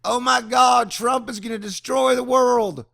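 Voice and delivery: shouted, high mock panic; panicked Democrats. Mocking Democrats on Twitter, shouted high panic. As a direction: shriek it like the world is ending. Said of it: "Democrats in twenty sixteen".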